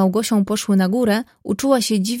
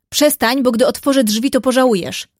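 threatening call; 3 semitones higher than usual. Acted. Artur through the locked door to Ludka, threatening call. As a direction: warn him off hotly through the door. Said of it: "zawołał młodzieniec groźnym tonem".

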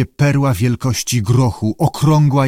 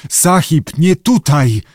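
higher, pleading cries; frightened diver's raised plea; trembling with fear; 5 semitones higher, 4 dB louder, slower than usual. A narrator's reading. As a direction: beg the master in fright. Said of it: "zaczął się trząść".

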